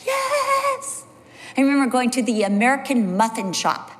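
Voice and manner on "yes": high mock joyful cry; a gleeful yes; meeting another believer, joyful yes. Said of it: "you almost screamed with joy".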